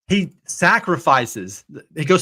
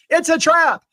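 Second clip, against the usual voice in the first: much higher, mock alien admiral warning; a quick high-pitched movie-alien impression; Admiral Akbar; 13 semitones higher, slower than usual. Joking aside about a money trap, in a high mock alien voice. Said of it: "really wanted to put Admiral Akbar going".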